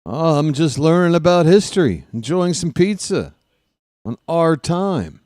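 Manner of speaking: a hint of the laid-back stoner kid; Jeff Spicoli impression. Broadcaster keeps doing the Spicoli stoner voice, laid-back. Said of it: "That was my Jeff Spicoli impression".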